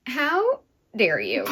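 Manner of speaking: mock-accuse while laughing and teary; laughing outrage. Real, not acted. Listener outraged by the sad ending, laughing. Laughing-crying after the reading.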